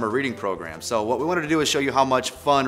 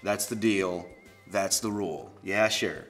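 lower, softer, resigned; grudging acceptance; 4 semitones lower, 6 dB quieter, slower than usual. Acted. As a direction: give in reluctantly under your breath. Grudgingly accepts the book's rule.

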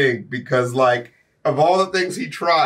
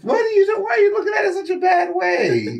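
high, fast mock outrage; indignant yell; shouting; 13 semitones higher, faster than usual. Real, not acted.

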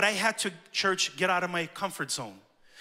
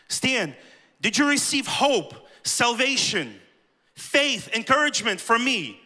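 louder, raised pleading challenge; challenging divine voice; 4 semitones higher, 3 dB louder, slower than usual. Retold or imitated. God challenging Stan about what he received, raised and urgent. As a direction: lift the voice, list each gift.

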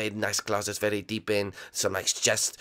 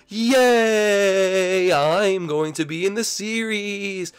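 high, slow, cheering ghost voice; excited ghost; 7 semitones higher, 3 dB louder, much slower than usual. Acted. Blimpy celebrates joining the series, high and slow. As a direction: squeal it like a delighted little ghost.

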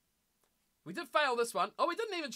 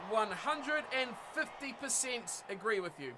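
slow, softer, deliberate emphasis; emphatic agreement; 5 dB quieter than usual. Real, not acted. Streamer topping own agreement with Blake, slow emphatic. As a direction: stretch it out to stress full agreement.

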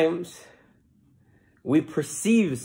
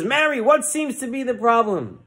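preacher; 8 semitones higher than usual. Acted. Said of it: "the preacher said".

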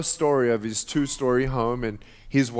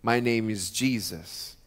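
gentle Jesus voice; 3 semitones lower than usual. Retold or imitated. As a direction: speak as a tender healer at the door. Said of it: "And he says".

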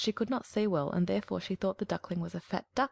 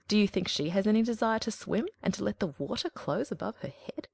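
a lightly raised, bossy hen voice; lecturing hen; 4 dB louder than usual. Acted. Hen lecturing the duckling, lightly bossy. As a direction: talk down like a self-important hen.

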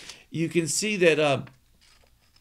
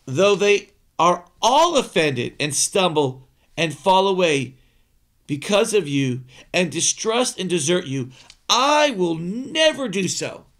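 Peter's bold vow; 6 dB louder than usual. Acted. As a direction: proclaim it like a proud disciple. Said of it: "Peter speaks up and he says".

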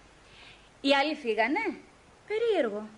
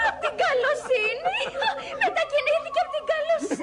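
giggling, high and delighted; girl repeating his words through laughter; laughing; 6 semitones higher than usual. Acted. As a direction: laugh it out in disbelief. Girl laughing at moving things.

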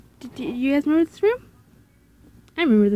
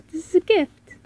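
lightly voiced British character; British accent; 4 semitones higher, slower than usual. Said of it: "I've given him a British accent".

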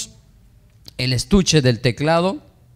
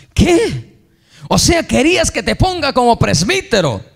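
high, sharp incredulous retort, like a father offended; indignant disbelief; 9 semitones higher than usual. Retold or imitated. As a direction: throw it back in shock. Father's indignant reply to son.

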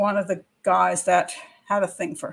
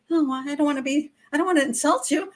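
higher, meek apologetic voice; timid girl; 4 semitones higher than usual. Retold or imitated. Young woman to a pushy helper, in a higher meek voice. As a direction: shrink back so as not to insult. Girl afraid to offend guy.

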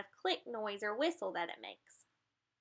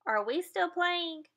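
higher, slow puzzled voice; confused dolphin; 7 semitones higher than usual. Acted. Dolphin asking its friend, higher and puzzled. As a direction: ask it innocently. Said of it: "the other dolphin says".

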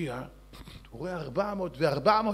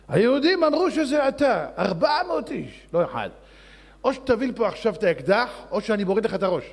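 angry king; 3 semitones higher, 5 dB louder than usual. Acted. King threatens minister.

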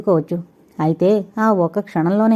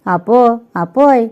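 calling out; 3 semitones higher, 5 dB louder, much slower than usual. A narrator's reading. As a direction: shout for his father from afar. Son calls out hurrying in.

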